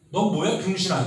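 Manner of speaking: playful insult, teacher acting it out; mock rude retort. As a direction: snap back at the old noble, half-joking. New noble snaps back at old.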